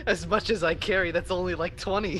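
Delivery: character voice. Acted. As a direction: boast it in character. NPC boasting in character.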